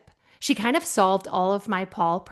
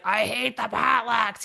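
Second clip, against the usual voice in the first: grumbling coworker; slower than usual. Retold or imitated. Paul complaining.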